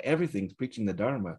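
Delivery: a touch of sugar and syrup, lifted and bright; syrupy sweet. Shown as a demonstration. Teacher demonstrating a sugary take to students, lightly syrupy. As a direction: lay a little sugar on it, gently gushing. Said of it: "adds a little more sugar and, uh, syrup".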